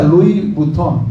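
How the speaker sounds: Louis Vuitton with a silent S in Louis; pronunciación de la marca. Shown as a demonstration. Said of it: "se pronuncia". (Louis Vuitton pronunciado sin la S final de Louis)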